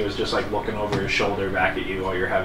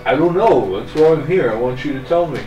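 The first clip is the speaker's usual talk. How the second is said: put-on frustrated young man; 5 semitones higher, 7 dB louder than usual.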